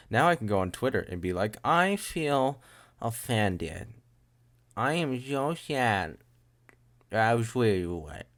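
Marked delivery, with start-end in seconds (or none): 1.6-8.3 drawn-out, high mock hurt; mock offended whine. Posting on Twitter about being offended, mock whine. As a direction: whine it slowly, hamming up the offence.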